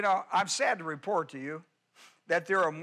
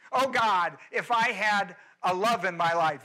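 mock whining prayer; 4 dB louder than usual. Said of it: "whine and cry and complain".

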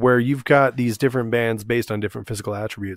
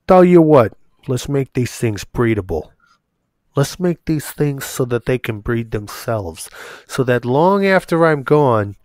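put-on Agenor's odd accent. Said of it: "I don't know why Agenor has that accent".

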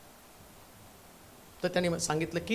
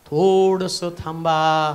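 slow God voice; 6 semitones lower, much slower than usual. Acted. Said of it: "तो म्हटला".

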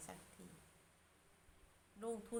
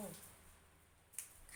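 drawn-out emphasis; 4 semitones lower, 15 dB quieter, much slower than usual. Real, not acted. Stretching the word empty.

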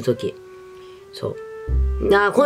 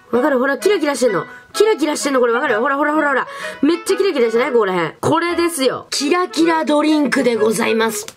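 high, gushing over something sparkly; thrilled showing off a glittery drink; excited; 8 semitones higher than usual. Real, not acted.

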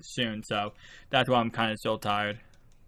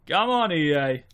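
exasperated outcry; 2 semitones higher than usual. Real, not acted. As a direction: call the developers out openly. Complaining about the game.

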